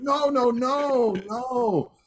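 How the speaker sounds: lightly voiced indignant guitarist; mock protest. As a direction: ham up a protesting Godfrey. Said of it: "And he said".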